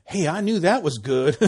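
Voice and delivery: loud, high, laughing exclamation; excited. Retold or imitated. Preacher retelling his reaction to the good test results, excited. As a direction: blurt it out with a laugh.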